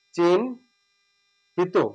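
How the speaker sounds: drawn out চিহ্নিত with ন before হ; correct pronunciation. Shown as a demonstration. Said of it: "এটা হচ্ছে সঠিক উচ্চারণ". (ধীরে সঠিক উচ্চারণ)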